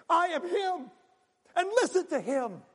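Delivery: high, loud proclaiming Father; a lightly voiced Father declaring; ringing proclamation from heaven; the Father speaking. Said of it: "the Father says".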